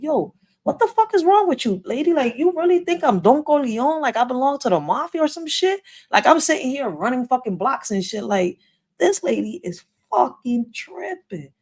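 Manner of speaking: snapping back at her in disbelief; aggressive retort. Retold or imitated. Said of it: "my voice was aggressive".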